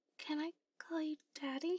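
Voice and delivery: shy and embarrassed. Speaker, saying she feels safe with the listener, asks a bold question: embarrassed. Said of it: "I'm so embarrassed right now".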